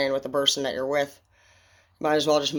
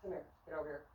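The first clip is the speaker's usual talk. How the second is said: calling from far away; 20 dB quieter, much faster than usual. Real, not acted. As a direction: voice from a distance.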